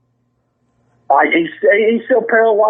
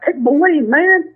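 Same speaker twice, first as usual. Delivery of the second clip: higher, mock outraged scolding; imitating Blackie; 8 semitones higher than usual. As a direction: pile the blame on the rookie. Retold fake disbelief.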